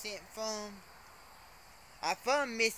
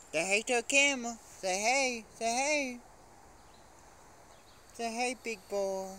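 higher-pitched pet talk; coaxing a pet; 5 semitones higher than usual. Real, not acted. Owner to Big Boy for the camera, coaxing. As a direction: coax the pet in a raised voice.

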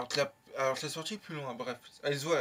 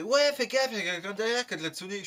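louder, higher retold scolding mother; imitating mum telling him off; 5 semitones higher, 4 dB louder than usual. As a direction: snap a warning like a nagging mum. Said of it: "Ma mère, elle m'engueule".

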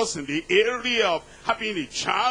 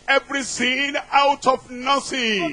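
raised, commanding preacher's God; louder, higher divine command; Almighty God; 4 semitones higher, 4 dB louder than usual. Acted. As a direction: proclaim it loudly as God. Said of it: "Almighty God said".

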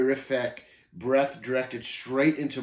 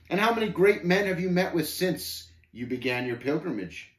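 higher, goading questioner; lightly voiced scornful Shame, pressing; 6 semitones higher, 3 dB louder than usual. Shame questioning the pilgrim about great men, goading. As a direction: press the advantage, mildly taunting.

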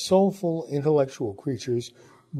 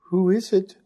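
raised voice, calling through a door; 7 semitones higher, 5 dB louder than usual. Acted. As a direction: call it out from another room.

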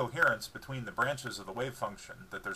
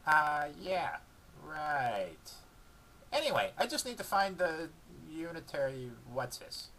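higher dog voice, muddled and vague; fumbling dog voice; 5 semitones higher, slower than usual. A narrator's reading. Dog fumbling the physics term, muddled dog voice. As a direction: bluff through the jargon.

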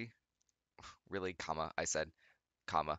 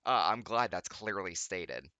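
sarcasm; 6 dB louder, slower than usual. Real, not acted. Sarcastic remark.

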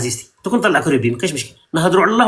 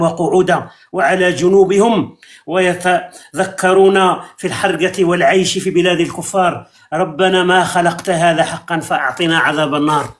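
slow, solemn parody of Quranic chanting; mock recitation; slower than usual. Host mocks the atheist caller with fake verse, slow solemn recitation. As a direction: intone it like a verse, slowly.

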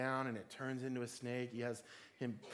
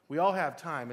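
loud emphasis; 3 semitones higher, 9 dB louder than usual. Real, not acted.

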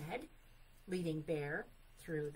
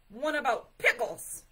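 loud, raised bear command; 5 semitones higher, 12 dB louder than usual. A narrator's reading. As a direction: order it bossily at full voice. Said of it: "commanded Bear".

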